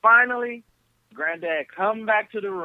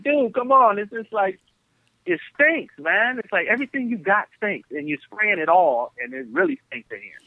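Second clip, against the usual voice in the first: disgusted complaint; 5 semitones higher than usual. Retold or imitated. Complaining about cologne smell.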